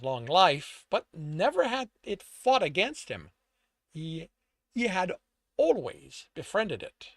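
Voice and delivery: measured, dramatic storyteller read; story narration. A narrator's reading. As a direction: narrate the scene with emphatic phrasing. Reads own story aloud.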